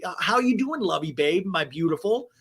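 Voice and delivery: lightly mocked sweet-talk, starting high; lovey-dovey boyfriend. Ryan sweet-talking Jen, lightly mocked lovey-dovey manner. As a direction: pepper it with mock endearments. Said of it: "He always peppers the beautiful babe".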